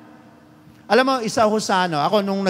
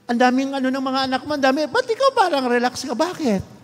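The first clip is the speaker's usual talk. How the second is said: wife's complaint; 6 semitones higher than usual. Retold or imitated.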